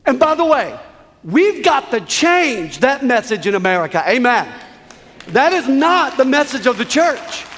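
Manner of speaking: fervent sermon correction; impassioned preaching. Real, not acted. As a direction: drive the point home to a congregation. Preaches with rising force.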